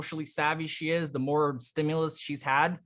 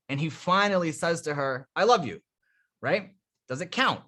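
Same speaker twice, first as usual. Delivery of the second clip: playful delivery. Shown as a demonstration. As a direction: perform it like a little story. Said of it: "watch, I'll run that one for you".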